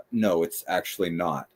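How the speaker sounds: low, soft aside to oneself; passive-aggressive mutter. Retold or imitated. Board member muttering to herself as speaker moves podium, passive-aggressive. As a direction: imitate a passive-aggressive murmur under the breath. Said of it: "whisper to herself in a passive aggressive way".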